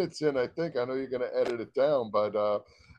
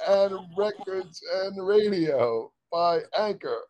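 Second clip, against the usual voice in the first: laughing; 7 semitones higher, slower than usual. Real, not acted. Take broken by laughter.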